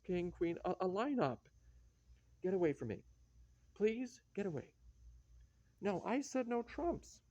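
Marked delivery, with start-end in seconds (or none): 2.4-4.7 irritated. Acted. Angry card player pushes partner off. 5.8-7.2 I said no trumps, pitched high and slow; protest, voice up high and drawn out; a card player insisting, high and slow; high indignant insistence. Acted. Repeats claim, louder in argument.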